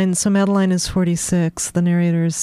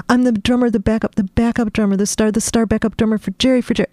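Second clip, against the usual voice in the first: excited boast; 4 semitones higher, faster than usual. Acted.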